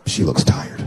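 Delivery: whispered and low; whispered thought. Retold or imitated. Husband deciding at night not to wake his wife, whispering. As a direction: breathe it so she won't wake.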